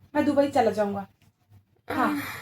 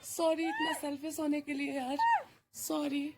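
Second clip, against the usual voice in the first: soft apology; 2 semitones lower, 10 dB quieter than usual. Acted. Apologising to victim softly.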